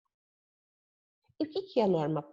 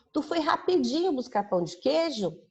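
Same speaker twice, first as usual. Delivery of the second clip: higher, breezy everyday question; casual Minas question; 8 semitones higher than usual. Shown as a demonstration. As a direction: toss it off like a friend in Minas. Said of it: "esse "tu" é o seguinte".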